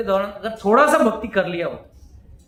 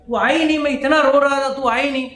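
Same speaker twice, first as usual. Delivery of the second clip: put-on sulking child; 4 semitones higher, much faster than usual. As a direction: act the hurt little boy scolding his mother. Child complains to mother. (ऊँची, थोड़ी तेज़ रूठे बच्चे की आवाज़)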